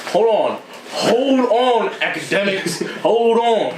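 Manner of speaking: high, drawn-out interruption; Joe Budden impression. Imitating a podcaster halting his co-host, drawn-out interjection. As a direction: stretch it out as a mock objection, amused. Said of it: "Joe Budden gets like".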